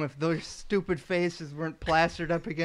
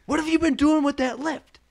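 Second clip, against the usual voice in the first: loud, raised-pitch imitated scolding; pissed-off foreman; 10 semitones higher, 8 dB louder than usual. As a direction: demand an answer like an angry boss. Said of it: "all pissed off".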